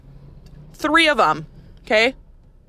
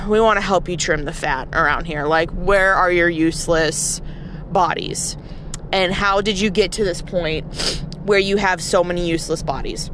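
cold consultant; 4 semitones lower than usual. Pretend. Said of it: "roll up into a company and be like".

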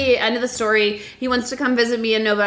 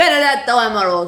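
laughing; 5 dB louder than usual. Real, not acted. Relishing the name, laughing.

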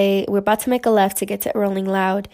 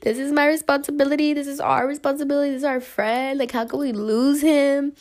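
higher, panicky rush of worry; freaking out; 5 semitones higher than usual. Retold or imitated. Retelling to viewers her panic over the lost friend. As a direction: replay the panic of losing a friend. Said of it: "I'm freaking out because I'm like".

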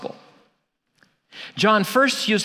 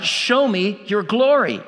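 higher-pitched plea, quoting Moses; mild imitated cry; 4 semitones higher than usual. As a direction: cry it out as Moses, without shouting. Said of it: "Moses cries out".

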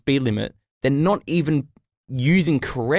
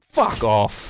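ordinary talk, nothing marked

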